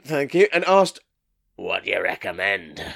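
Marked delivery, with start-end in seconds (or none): 1.5-2.8 a touch of a deep-voiced customer; acted customer. Customer asking the teenage clerk, lightly voiced low role.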